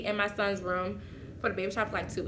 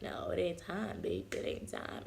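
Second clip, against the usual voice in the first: mild dismissive; 3 semitones lower, 8 dB quieter, slower than usual. Retold or imitated. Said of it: "He like".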